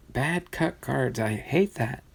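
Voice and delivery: quiet grumble. Real, not acted. Collector grumbling about badly cut cards, quiet complaint. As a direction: grumble under your breath.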